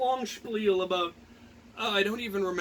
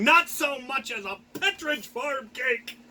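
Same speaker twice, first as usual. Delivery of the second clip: louder, higher mock taunt; teasing jab; 6 semitones higher, 4 dB louder than usual. Teasing the friend who forgot his birthday, mock taunt. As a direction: rub it in with a grin. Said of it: "sent her a message saying".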